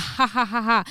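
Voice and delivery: imitated jeering laugh in separate ha's; mocking fake laugh. Imitating the man laughing as he walks off, mocking. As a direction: mimic his careless laugh. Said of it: "laughing, walking off like".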